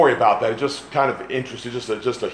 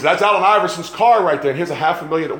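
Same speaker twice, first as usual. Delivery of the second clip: higher-pitched mock Pakistani accent; imitated Pakistani accent; 5 semitones higher, 4 dB louder than usual. Preacher imitating a bystander spotting a star's car, Pakistani accent. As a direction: put on an excited Pakistani accent. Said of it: "he was actually Pakistani".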